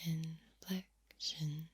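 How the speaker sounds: "inflection" very slow and broken into syllables; varied inflection. Shown as a demonstration. Mixing up tone for fun, "inflection" very slow and sinking. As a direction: let "inflection" sink slightly, syllable by syllable. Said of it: "Mixing up my tone and inflection".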